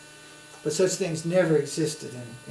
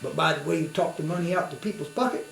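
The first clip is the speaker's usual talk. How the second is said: put-on southern accent; 4 dB quieter than usual. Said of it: "he had a strong southern accent".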